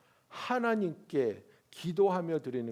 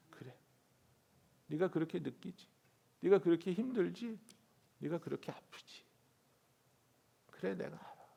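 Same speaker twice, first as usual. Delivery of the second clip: gentle consolation; 2 semitones higher than usual. Retold or imitated. God answering Elijah gently.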